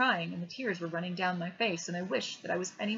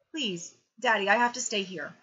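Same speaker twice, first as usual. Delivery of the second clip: put-on louder pleading child; 7 dB louder than usual. A narrator's reading. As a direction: beg to stay. Boy begging father.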